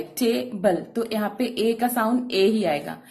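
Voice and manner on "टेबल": "टेबल" broken after the long टे; syllable break. Shown as a demonstration. Teacher repeats "टेबल" to show the break, syllable by syllable. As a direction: say "टेबल" as two separate syllables. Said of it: "यहाँ पे देखिए break हो रहा है".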